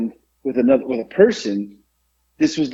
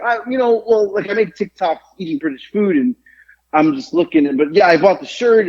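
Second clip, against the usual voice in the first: higher-pitched flustered explanation, reenacted; stumbling over words; 4 semitones higher than usual. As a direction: trip over your words explaining yourself. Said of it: "I was literally stumbling over my words".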